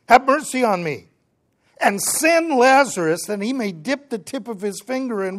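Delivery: acted cry for help. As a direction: call out an urgent request. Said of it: "So he cries out and says".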